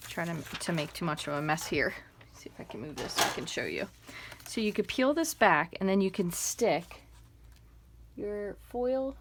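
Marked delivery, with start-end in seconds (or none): 0.1-3.9 soft unvoiced whisper to self. Real, not acted. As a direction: mutter it under your breath while busy. Muttering aside while working.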